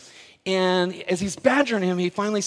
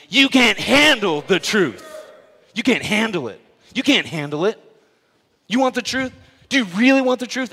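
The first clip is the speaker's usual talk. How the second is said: Jack Nicholson shout; 4 semitones higher, 6 dB louder than usual. Retold or imitated. Pastor leads the church in the general's iconic line, shouting. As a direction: bark it down at the lawyer like a furious Marine colonel. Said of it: "how Jack Nicklaus says it".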